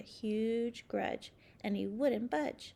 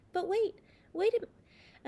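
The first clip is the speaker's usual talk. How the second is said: sudden realization; 8 semitones higher, 5 dB louder, much slower than usual. Acted. Spotting wrong date.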